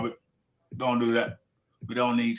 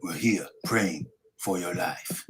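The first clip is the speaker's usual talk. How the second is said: put-on Ugas accent; 2 semitones lower than usual. Reading a fighter's tribute to Spence, muddled accent. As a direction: read it out in a wobbly put-on Spanish-style accent. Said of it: "I thought I was doing Manny, then I thought I was doing Ugas".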